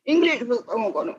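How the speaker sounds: high-voiced boy lightly acted as weepy; tearful pleading. A narrator's reading. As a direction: plead for it like an upset child. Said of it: "ఏడవకు నాయనా".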